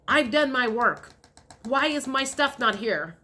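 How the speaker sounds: mildly exasperated, emphatic complaint; impatient. Acted. Viewer asking the universe where their stuff is, impatient. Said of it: "I just feel very impatient, kind of like".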